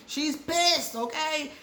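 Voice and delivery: high, laughing delivery; amused. Real, not acted. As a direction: say it still cracking up. Amused at the angry client.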